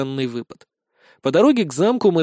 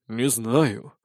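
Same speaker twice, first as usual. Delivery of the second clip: low, doubtful sigh; 4 semitones lower, 3 dB quieter than usual. Acted. Spirt doubts the plan, sighing low. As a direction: sigh it out with misgiving. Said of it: "вздохнул Спирт".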